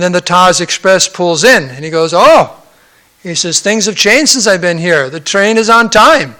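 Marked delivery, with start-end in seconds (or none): 2.1-6.3 loud, lifted exclamation of surprise; impressed, raised-voice retelling; pleasant surprise. Retold or imitated. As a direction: act out a traveler's amazed discovery. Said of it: "The British man says".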